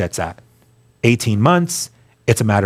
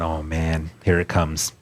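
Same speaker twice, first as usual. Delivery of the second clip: resigned; 7 semitones lower, 7 dB quieter, slower than usual. Retold or imitated. Resigned reaction to the catch.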